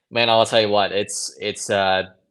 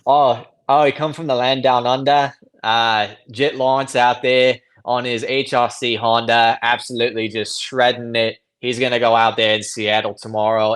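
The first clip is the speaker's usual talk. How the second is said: put-on Aussie accent. Guest obliges host's request with his best Australian accent. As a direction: play an Aussie race commentator in a lightly done Australian accent. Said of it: "give me your best, uh, Aussie accent".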